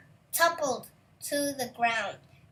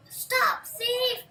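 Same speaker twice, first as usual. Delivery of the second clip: much higher, louder angry shout; giant roaring; 10 semitones higher, 4 dB louder than usual. A narrator's reading. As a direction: roar after the thief. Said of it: "the giant roared".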